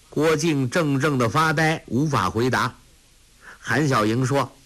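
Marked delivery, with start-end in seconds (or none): none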